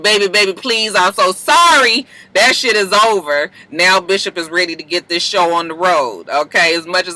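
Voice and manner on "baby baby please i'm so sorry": imitated plea for forgiveness; mock pleading. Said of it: "All that knee scraping, begging, and pleading".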